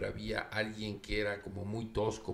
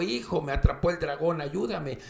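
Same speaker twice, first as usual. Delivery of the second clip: mother's plea; 6 semitones higher, 3 dB louder than usual. Acted. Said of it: "oye la voz de su mamá".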